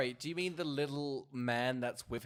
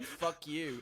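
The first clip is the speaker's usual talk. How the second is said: acted taxi driver's brush-off; mock curt retort; 3 semitones higher than usual. Taxi driver answers a would-be passenger, mock curt retort. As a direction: toss out the insult as a quoted retort.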